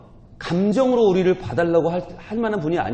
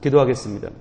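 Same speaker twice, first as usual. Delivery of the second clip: ordinary talk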